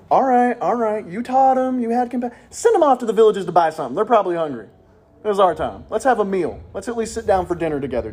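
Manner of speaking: fed-up disciples grumbling; impatient, pleading for their own time; acted exasperation; annoyed. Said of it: "they are annoyed that Jesus is teaching".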